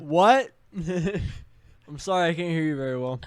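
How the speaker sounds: slow teasing mock deafness; mock can't hear. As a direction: pretend you can't hear. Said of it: "You gotta speak clear".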